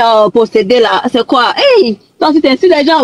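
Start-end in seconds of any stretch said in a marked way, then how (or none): 1.5-3.0 playful high scolding; mock scolding. Real, not acted. Scolding the general.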